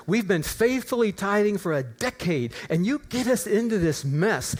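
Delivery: mildly angry retold rant at God. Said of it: "I started on a rant".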